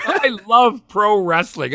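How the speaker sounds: high, loud, slow elated cry; joyful declaration. Retold or imitated. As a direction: proclaim it, overwhelmed with happiness. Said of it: "he gets in the ring and he says".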